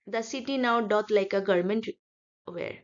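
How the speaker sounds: slow, deliberate line of verse; poem reading. Shown as a demonstration. Teacher looks for the rhyme, slow verse reading. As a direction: read slowly, pausing before the last word.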